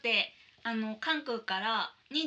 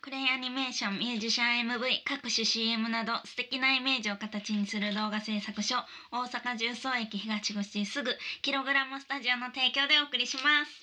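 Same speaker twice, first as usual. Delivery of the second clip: radio sponsor read. Acted.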